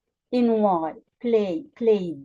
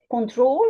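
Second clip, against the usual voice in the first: "control" with "trol" longer, lifting at the end; stress on last syllable. Shown as a demonstration. Teacher explaining the American English rule, stress on "trol" in "control". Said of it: "the stress is on the last syllable".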